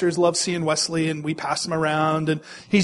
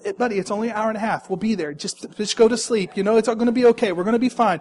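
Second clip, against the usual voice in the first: put-on soothing baby; faster than usual. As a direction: talk him down gently and fast. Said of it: "I'm trying to reason with him".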